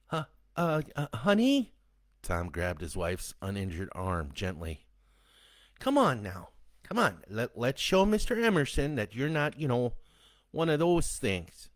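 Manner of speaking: high, shaky-voiced coaxing husband; husband coaxing his infected wife to step out; nervous coaxing. A narrator's reading. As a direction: coax her gently out of the car.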